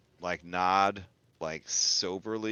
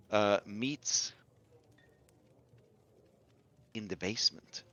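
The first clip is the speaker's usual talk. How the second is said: lightly voiced rumour-sharer; measured informant. Informant telling players of a secretive book club, measured character voice.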